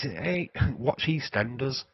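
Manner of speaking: drawn-out East End Cockney; lightly put-on Cockney; Cockney accent. Shown as a demonstration. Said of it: "and that's the Cockney accent".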